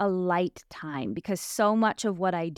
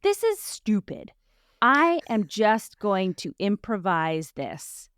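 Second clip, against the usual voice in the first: retold exasperated resolve; slower than usual. Woman retelling her decision to improvise, exasperated. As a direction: throw out the plan, then declare it slowly.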